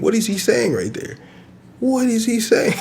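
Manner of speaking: high-pitched, incredulous question breaking into laughter; squeaky disbelief tipping into a laugh; laughing bafflement. Retold or imitated. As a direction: mimic a baffled listener, cracking up at the end.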